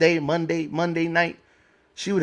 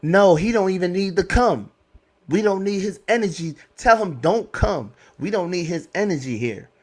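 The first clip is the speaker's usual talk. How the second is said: higher, mildly scornful mimic of the mother; a hint of a dismissive mother, raised pitch; mimicking the mother; 4 semitones higher than usual. Imitating daughter's mother saying he shouldn't come, scornful and high. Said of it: "Her mother's in the background".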